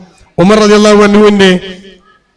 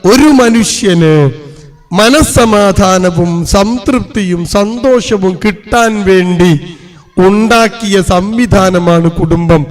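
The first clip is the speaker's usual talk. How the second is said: each word laid out slowly; measured preacher's definition; much slower than usual. Shown as a demonstration. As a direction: spell it out slowly so they remember. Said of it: "ഞാൻ പറഞ്ഞുതരാം".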